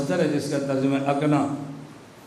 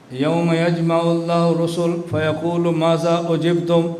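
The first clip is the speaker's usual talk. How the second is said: Quran recitation; slower than usual. Acted. Quotes a Quran verse.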